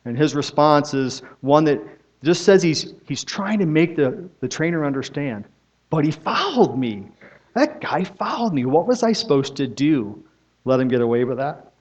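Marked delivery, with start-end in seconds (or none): 5.9-11.7 lightly voiced protest, pitch jumping up on that; a hint of an indignant jockey pleading his case; aggrieved jockey. Jockey protesting to the trainer, mildly aggrieved and pleading. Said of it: "he's angry too".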